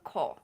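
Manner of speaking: ko said lightly; right Japanese ko. Shown as a demonstration. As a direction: ko with a short light O. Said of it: "the O is lighter".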